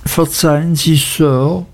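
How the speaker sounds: small, apologetic request; timid plea. A narrator's reading. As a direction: beg pardon nervously of a feared master. Frightened boy timidly asks a favour.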